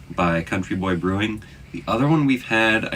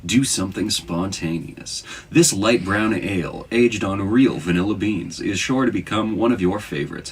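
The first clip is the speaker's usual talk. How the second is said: sultry voice. Shown as a demonstration. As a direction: purr it like a seductive ad. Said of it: "I'm gonna read the back in a sultry voice".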